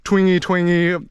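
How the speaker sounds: lightly lilted "twingy, twangy"; twangy intonation demo. Shown as a demonstration. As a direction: let "twingy, twangy" swing gently upward. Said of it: "it's kinda like this".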